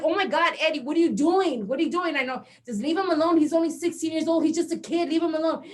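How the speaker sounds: high, loud frantic plea; panicked pleading. Retold or imitated. Mom in the car begging Eddie, high and loud. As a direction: beg him to stop, voice up high. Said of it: "and I'm like".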